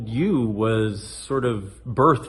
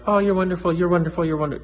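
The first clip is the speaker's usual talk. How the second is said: higher, sugary mock praise; mock gushing; 7 semitones higher, faster than usual. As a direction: parody empty flattery. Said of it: "it'll just be like".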